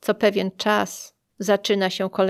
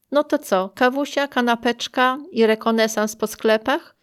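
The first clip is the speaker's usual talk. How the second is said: laughing; 4 semitones higher, 3 dB louder than usual. Retold or imitated. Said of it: "śmiejąc się".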